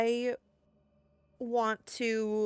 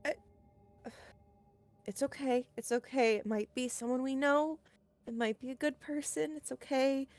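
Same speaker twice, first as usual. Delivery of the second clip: reassuring; 4 semitones higher than usual. Acted. Husband tells wife it might be a good person, mildly soothing. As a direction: soothe a frightened partner, lightly acted.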